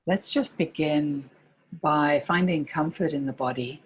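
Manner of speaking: calm meditation guide with long pauses between phrases; guided meditation. Real, not acted. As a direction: gently lead listeners into body and breath, pausing often.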